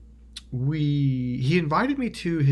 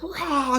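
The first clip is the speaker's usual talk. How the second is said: short, high imitated roar; extreme rage roar; 14 semitones higher than usual. Showing the friend's outburst, imitated rage roar. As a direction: burst into a mock roar of rage. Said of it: "from extreme rage".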